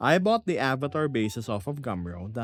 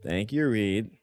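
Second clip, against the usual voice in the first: unintended sarcasm; 3 semitones lower than usual. Real, not acted. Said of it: "I did not mean to sound sarcastic".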